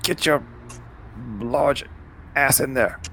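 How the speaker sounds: teasing. Acted. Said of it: "and just be like".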